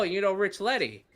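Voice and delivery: "Rich Letty" run together quickly; name said fast. Retold or imitated. Interpreter asking if he knows someone, "Rich Letty" said fast. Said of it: "he said it so fast".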